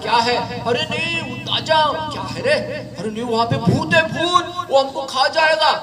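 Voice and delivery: put-on alarmed child. Boy urgently warns his friends about the ghost, high-pitched. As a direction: warn them the ghost will eat them.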